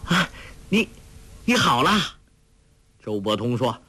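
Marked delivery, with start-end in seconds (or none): 0.0-1.9 halting, higher-pitched delighted exclamation; overjoyed cry. A narrator's reading. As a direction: burst out in joy at a friend's recovery. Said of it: "郭靖大喜， 叫道".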